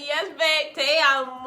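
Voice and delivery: loud, high, gushing cheer. Retold or imitated. Vlogger cheering on the couple, loud excited gush. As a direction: squeal it at the screen like a fan.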